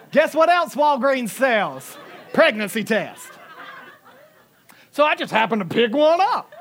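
can't hold back the joy; giddy laughter at the punchline; laughing excitedly. Real, not acted. Laughing at buying pregnancy test.

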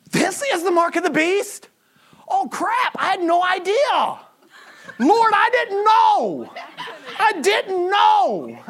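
high, drawn-out, hammed-up dismay; mock horrified shock. Believer in heaven learning about the mark, mock horrified shock. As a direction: plead ignorance in exaggerated disbelief.

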